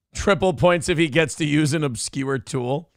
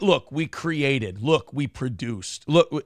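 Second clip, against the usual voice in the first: slow proud boast; 2 semitones lower, slower than usual. Retold or imitated.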